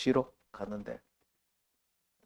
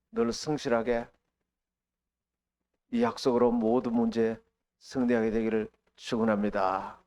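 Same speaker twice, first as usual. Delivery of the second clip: normal talking voice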